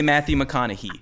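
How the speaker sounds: McConaughey ending in "hee"; doubted pronunciation. Shown as a demonstration. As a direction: say McConaughey as if it ended in "he". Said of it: "have you ever heard anyone say".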